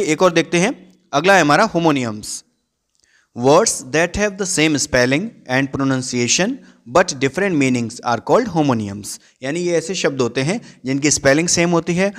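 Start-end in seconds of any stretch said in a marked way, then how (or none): 3.3-9.2 slow dictation reading. Acted. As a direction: read the definition word by word, very slow. Reads English definition slowly.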